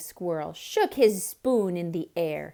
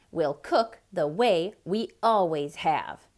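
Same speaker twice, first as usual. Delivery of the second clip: snapped; 3 semitones lower, 6 dB louder than usual. Acted. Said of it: "snapped the cat".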